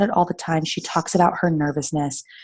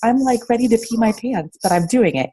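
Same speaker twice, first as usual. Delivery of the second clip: nervous excited; 5 semitones higher than usual. Pretend. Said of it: "Be like".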